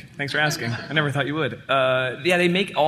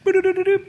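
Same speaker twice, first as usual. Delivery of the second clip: imitated game jingle; 14 semitones higher, faster than usual. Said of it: "It's just like".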